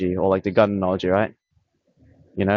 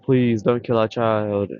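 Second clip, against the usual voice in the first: mock pleading; much slower than usual. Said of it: "like, crying and".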